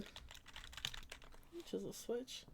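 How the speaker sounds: slow whispered question to herself. Real, not acted. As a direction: mutter it under your breath, slowly. Muttering while searching prices.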